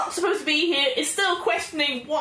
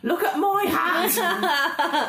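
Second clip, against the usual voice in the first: mocking shout; 4 semitones higher than usual. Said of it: "So I rush up and I'm like".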